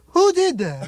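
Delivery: high, loud indignant cry; indignant host. Retold or imitated. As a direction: demand to know who did it, up high. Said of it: "And he'd say".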